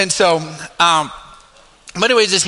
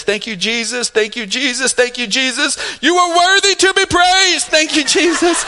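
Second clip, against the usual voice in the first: hammed-up, climbing Pentecostal praise; imitating Pentecostal preacher; 8 semitones higher than usual. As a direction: build like a revival preacher at prayer. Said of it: "turned to a fifty-year-old Pentecostal preacher".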